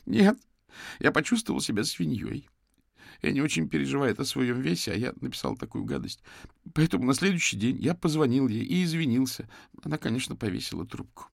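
high, strained, pleading voice; distraught young man. Acted. Suspect confesses to the detectives, high and distraught.

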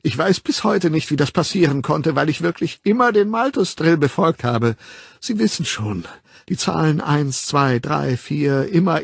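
lightly voiced defensive Linda, pitch lifting; protesting Linda. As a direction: plead that you are not to blame. (sich rechtfertigend, beteuernd)

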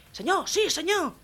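high, military yes-sir; obedient soldier. Acted. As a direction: answer the sergeant like a recruit. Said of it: "el andaluz dice".

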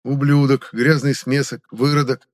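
deliberate name-by-name listing; listing insults. A narrator's reading. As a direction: count off each slur with force. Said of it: "принялся перечислять Министрель".

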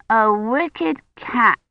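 put-on high, slow little-girl voice; eager child. Agnes asks for a wicked cat story, high child voice. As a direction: savour the words.

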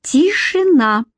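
high, ringing order for silence; commanding. A narrator's reading. Fairy leader silencing the council, commanding. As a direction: order the whole hall to hush. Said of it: "приказала Эмеральда".

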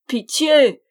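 loud, high cry for mercy; gasped plea. A narrator's reading. Exhausted friar begging the goblin, desperate cry. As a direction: beg for mercy at full voice. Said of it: "râla Bruno".

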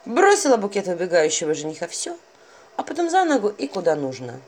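plain reading voice

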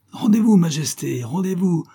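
high-pitched bellow to surrender; bellowed call. A narrator's reading. Stein calls on the fleeing rider to surrender, bellowing. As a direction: bellow it out, pitched well above the narration. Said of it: "beuglait-il".

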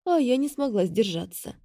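plain reading voice

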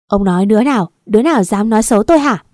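loud, quickening challenge; angry demand. Acted. Wife demands to know who badmouthed her, angry demand. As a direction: demand a name, indignant.

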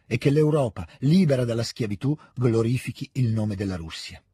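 solemn declamation with a touch of tremor; trembling proclamation reading. A narrator's reading. Sonia reads the last words, feeling listened to, slight tremor. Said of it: "con un tremito nella voce".

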